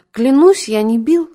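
a wronged man's whining protest; plaintive exclaim. A narrator's reading. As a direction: cry out pitifully in protest. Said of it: "жалобно воскликнул".

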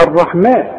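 الرحمن with a thin, front "maa"; light mim. Shown as a demonstration. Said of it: "مرققة في القرآن". (الرحمن بترقيق الميم)

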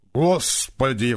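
talking with mouth full; mumbled through a full mouth. Acted. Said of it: "прошамкал с набитым ртом". (с набитым ртом)

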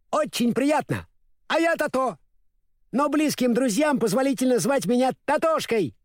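high, chirpy little dog; cheerful small dog voice; lively puppy greeting. A narrator's reading. Little dog Toto speaks.

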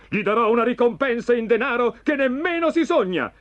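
high, urgent proclamation by a king; indignant cry. A narrator's reading.

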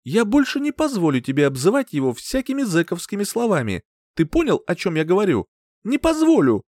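building to a high, loud shout on позволю; furious mother laying down the law; furious ultimatum. A narrator's reading. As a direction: hammer home the threat.

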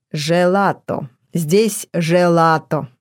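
Желато drawn out in a singsong lilt; singsong drawn-out syllables. Acted. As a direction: stretch each syllable of желато melodically. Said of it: "певуче растягивая слоги".

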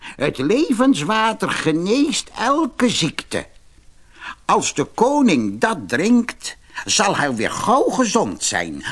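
put-on a mysterious old man warning, crackly; creaky old man. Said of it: "met krakende stem".

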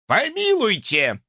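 high, slow dismissive scoff; scornful snort. Acted. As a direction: snort it with disdain. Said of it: "фыркнул Локхарт".

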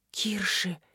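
soft breathless name, almost silent; just shape it with the lips; barely audible name; mouthed, barely voiced. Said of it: "сказала она одними губами".

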